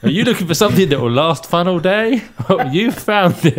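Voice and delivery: advert voice. Acted. Mock toy advert pitch.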